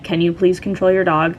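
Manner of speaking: even, composed retold request; calm request. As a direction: keep it polite and unruffled. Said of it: "I would just say it very calmly".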